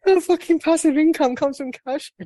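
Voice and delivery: high, loud, laughing blurt; laughing outburst. Real, not acted. Host laughing at guest's cowshed business joke, high laughing. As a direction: crack up while saying it.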